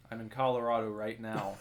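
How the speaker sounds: said through a chuckle; laughing. Shown as a demonstration. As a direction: laugh while saying it. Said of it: "I can tell you this".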